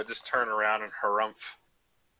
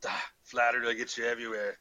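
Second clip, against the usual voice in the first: dismissive, lightly put-on Scottish burr; horrible Scottish accent. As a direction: brush off the orc in mock Scottish. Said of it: "back to my horrible Scottish accent".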